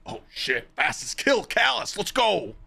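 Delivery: excited answer to Glad's invite, climbing high; hyped reply. Retold or imitated. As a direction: get pumped for the raid.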